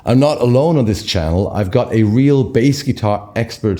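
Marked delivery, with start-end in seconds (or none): 0.0-1.5 strained, hoarse voice from a lost voice; hoarse cry. Real, not acted. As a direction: push words through a worn-out, hoarse throat. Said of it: "I've lost my voice".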